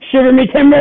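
high, loud pirate shout; old sailor. Acted. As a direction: bellow it like a salty sea dog. Pirate sign-off line.

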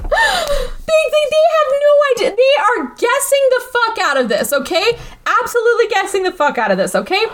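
high, breaking with laughter; laughing. Real, not acted. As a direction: talk through a fit of giggles. Laughing while describing players.

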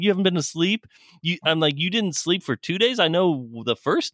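high incredulous questioning through laughter; can't believe what he's hearing; laughing disbelief. Retold or imitated. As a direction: coworker says he hasn't slept.

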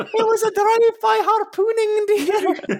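loud, very high Scottish nanny voice; hammed-up falsetto old dear; Missus Doubtfire. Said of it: "Missus Doubtfire on the pirate ship".

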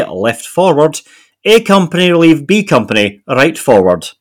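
put-on genteel Edinburgh accent; Morningside Edinburgh accent. Co-host reading Royal Scots diary, Morningside Edinburgh accent. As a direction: attempt your best Morningside Edinburgh voice. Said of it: "This is my best Edinburgh accent".

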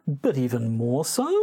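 "so" swept upward like a question; statement as a question. Shown as a demonstration. Host answering co-host's challenge, statement as a question. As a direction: end on a questioning rise on "so". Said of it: "making statements as questions".

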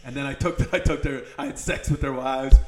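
lightly voiced Donald Trump, boastful; rambling braggart, hint of Trump; Trump impression. Podcast host riffs as Trump on his enemies, mild Trump voice. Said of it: "We're getting into fucking impressions".

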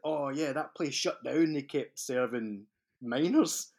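slow New York cabbie drawl; hammed-up New York cabbie; New York cabbie accent. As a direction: imitate a New York cab driver, taking it slowly. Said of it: "That's my New York cabbie accent".

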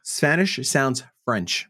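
"Spanish" leaned on, very slow and deliberate; slow emphatic correction. Shown as a demonstration. Host repeating the correction to cohost, very slow. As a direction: spell it out slowly, landing hard on "Spanish". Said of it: "No, I said".

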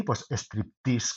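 slow Striptease with the stress on the I. Shown as a demonstration. Naming her next book title, Striptease said slowly with stress on the I. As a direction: stretch out Striptease and lean on the I, Stríptease. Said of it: "con acento en la I".

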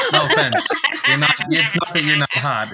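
high, loud flustered protest. Real, not acted. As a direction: blurt it out, embarrassed. Flustered joking reassurance.

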